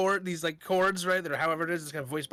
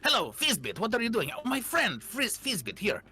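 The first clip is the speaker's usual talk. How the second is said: effusive greeting; 6 semitones higher than usual. Acted. Bard greeting gnome effusively.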